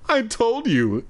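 high sharp start; stern opening. A narrator's reading. Shopkeeper warning the boy, sharp. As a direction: bite the first words. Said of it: "first take of the line".

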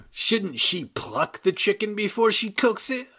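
a wisecracking ventriloquist dummy yelping it; dummy crying out. A narrator's reading. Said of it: "Mister Bad Boy cried".

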